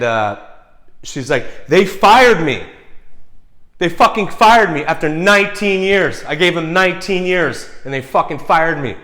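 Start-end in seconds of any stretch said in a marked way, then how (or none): 1.7-9.0 high, loud, wailing retelling of distress; loud imitation of a devastated ex; imitated sobbing outburst. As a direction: cry out in disbelief, imitating someone distraught. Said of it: "she's sobbing".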